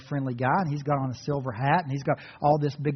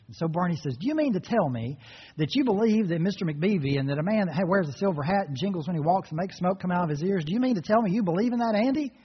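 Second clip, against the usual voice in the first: incredulous Barney; 2 semitones higher than usual. Retold or imitated. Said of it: "And Barney's like".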